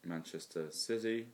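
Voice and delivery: slow, monotone fixture reading; robot voice. Retold or imitated. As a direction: read it like a robot. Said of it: "You sound like a robot".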